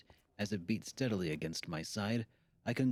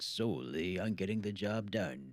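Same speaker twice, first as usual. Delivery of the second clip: lightly voiced old shopkeeper; calm old man advice. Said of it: "That's a really good old man voice".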